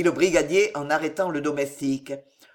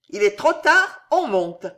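higher, louder urgent warning; 6 semitones higher, 4 dB louder than usual. A narrator's reading. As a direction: tell him it's too late. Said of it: "répondit Eugénie".

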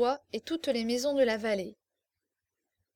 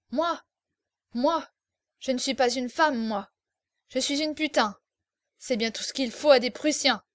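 indignant, vehement; 4 dB louder than usual. Acted. Insulted girl retorting to the officer, indignant. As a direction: throw it back at him with contempt. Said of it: "indignée et véhémente".

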